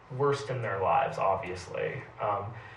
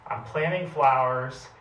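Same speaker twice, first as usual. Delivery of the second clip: shouted back; 3 semitones higher, 3 dB louder than usual. Retold or imitated. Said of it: "he shouted back at her".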